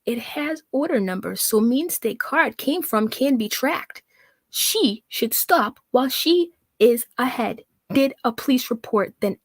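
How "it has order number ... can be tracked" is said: slow, deliberate read of her text; reading her broken sentence slowly; slow mock reading. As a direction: plod through it carefully. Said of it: "Let's try that again".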